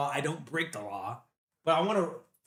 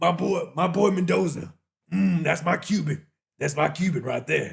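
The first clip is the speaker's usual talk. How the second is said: loud, rough put-on voice, belted out; 6 dB louder than usual. Joking about the draft, doing a quick impression: Deion Sanders impression. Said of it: "now I gotta do a Deion Sanders?".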